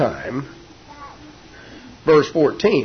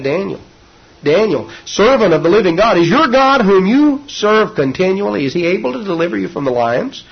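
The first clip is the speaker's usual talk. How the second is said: king calling out in anguish, raised and pleading; lamentable cry; 5 semitones higher, 3 dB louder than usual. Acted. King calls down into the lions' den, lamenting. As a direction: cry it out like a king who fears the worst. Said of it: "he cried out in this lamentable voice".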